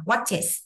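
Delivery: "watches" with is linked onto the ch; linked ending. Shown as a demonstration. Teacher showing linking to students, "watches" run into two syllables. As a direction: join the ch of "watches" to a second syllable. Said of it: "Chúng ta đọc nối vào là".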